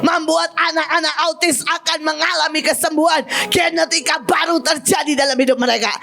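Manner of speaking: steady, unbroken proclamation; faith declaration. Shown as a demonstration. Preacher showing the congregation how to declare promises, steady proclamation. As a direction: declare each promise without letting the momentum drop. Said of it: "Saya bisa sejam seperti itu".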